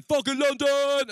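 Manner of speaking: high, loud drawn-out yell; wild crowd roar. Acted. London audience answering the comic, wild proud roar. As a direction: bellow it like a crowd going mad.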